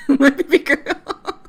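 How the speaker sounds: loud, slow mock-dad wail through laughter; laughing mimicry. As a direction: mimic a doting dad while cracking up. Laughs repeating dad's line.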